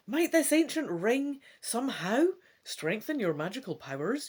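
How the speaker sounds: steady, engaged read-aloud voice; story narration. A narrator's reading. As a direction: narrate the adventure to a listener. Reading gamebook narration aloud.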